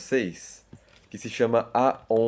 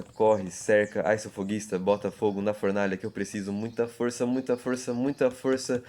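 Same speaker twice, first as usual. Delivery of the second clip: poem reading. Shown as a demonstration. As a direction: recite it like a train rolling along. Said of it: "Ele começa assim".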